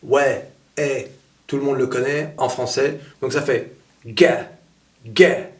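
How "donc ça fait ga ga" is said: ga said with an open è vowel; open E sound. Shown as a demonstration. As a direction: say ga with the E of accent grave. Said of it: "c'est le E accent grave".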